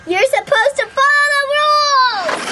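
high, insistent pretend telling-off; mock scolding. Player scolding police officer about the rules, high mock telling-off. Acted scolding of rule breaker.

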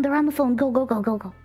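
ordinary talk

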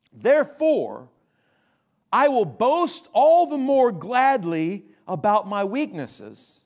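slow, deliberate scripture reading with a build. Acted. Pastor reading Paul's letter to the church, slow and deliberate. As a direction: read the verses slowly, letting each phrase land.

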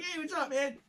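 high, soft friendly police greeting; casual cop being polite to a driver. Retold or imitated. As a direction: play the overly nice Connecticut cop. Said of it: "Police are like".

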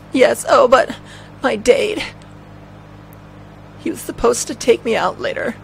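high-pitched woman's voice; Aya. Acted. Aya telling the cop about her date, high voice. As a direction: pitch it up for the female lead. Voicing Aya in game dialogue.

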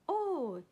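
loud, high "oh"; snorted exclamation. Acted. Elephant stung by fire water, snorting. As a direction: burst out with a startled snort. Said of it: "he snorted".

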